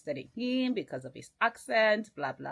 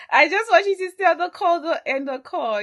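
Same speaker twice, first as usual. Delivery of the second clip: higher, louder, fast pleading; imitating Chioma; 11 semitones higher, 10 dB louder than usual. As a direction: beg him to stay on the line. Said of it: "she was like".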